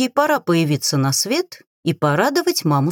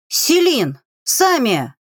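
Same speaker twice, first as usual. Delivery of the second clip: frightened cry; 6 semitones higher, much slower than usual. A narrator's reading. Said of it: "воскликнули разом перепуганные мужчины".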